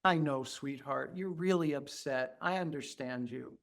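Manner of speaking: put-on soft, tender words to a crying baby; gentle soothing. Therapist soothing a crying baby, soft and tender. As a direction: soothe a small child softly. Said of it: "I look at the child and I say".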